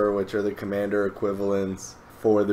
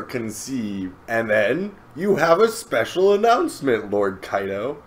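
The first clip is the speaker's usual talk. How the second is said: eager assistant Bao Huang; 3 semitones higher than usual. Retold or imitated. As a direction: dutifully present the schedule to the master. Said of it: "he has an assistant".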